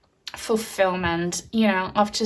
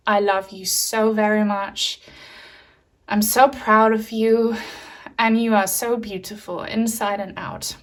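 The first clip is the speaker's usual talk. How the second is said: emotional. Real, not acted. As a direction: let real emotion into a tender message. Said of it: "I'm getting very emotional here".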